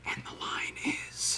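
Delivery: slow, hushed prompter's whisper; stage whisper. Retold or imitated. Genie reading the script, whispered. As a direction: whisper it slowly, very softly.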